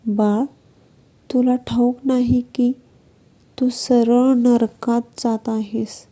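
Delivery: put-on mildly mournful sadhu warning the drunk; understated sad preacher tone. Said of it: "दुःखी स्वरात त्याला म्हणाला".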